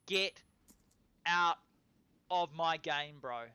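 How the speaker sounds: loud, drawn-out gloating call; real victory gloat at the enemy; hyped taunt. Real, not acted. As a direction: shout the taunt word by word. Taunting after a kill.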